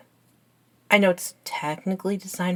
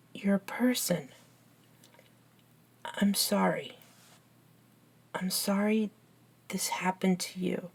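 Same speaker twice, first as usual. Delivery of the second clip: sincere apology; 4 dB quieter than usual. Acted. Friend apologising to the new vampire, sincere. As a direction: apologise gently, with pauses.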